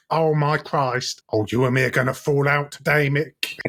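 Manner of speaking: lightly voiced exasperated mum; Pam's war cry. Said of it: "her war cry is like".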